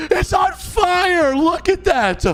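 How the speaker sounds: mock shock. Sees the house burning.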